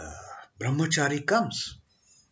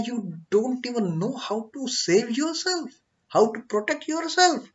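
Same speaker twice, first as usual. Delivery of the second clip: a higher, exasperated scolding; scolding guru; 4 semitones higher, much faster than usual. Acted. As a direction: chide him for being a fool. Guru scolding the foolish snake.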